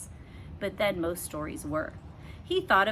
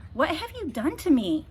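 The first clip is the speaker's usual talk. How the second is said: high squealing cry; a princess squealing in horror; 8 semitones higher, 4 dB louder than usual. A narrator's reading. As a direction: squeal like a shocked warthog. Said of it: "squealed the princess".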